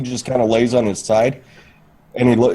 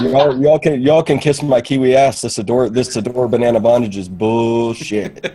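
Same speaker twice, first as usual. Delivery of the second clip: mock quote of her.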